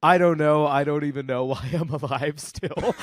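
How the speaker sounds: put-on loud, chuckling old aunt; great aunt on the phone, amused and laughing. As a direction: laugh through the line as the aunt. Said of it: "my great aunt goes".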